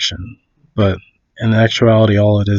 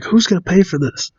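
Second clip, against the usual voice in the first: retold yelling; 7 semitones higher than usual. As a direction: imitate an irate driver, mildly. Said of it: "he's yelling at her".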